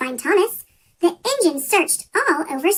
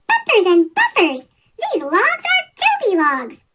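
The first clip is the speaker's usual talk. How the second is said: excited discovery; 5 semitones higher than usual. A narrator's reading. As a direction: burst out with amazed delight. Thomas realises amazing discovery.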